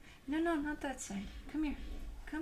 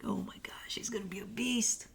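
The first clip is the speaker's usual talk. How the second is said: whisper. Retold or imitated. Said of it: "and it's like".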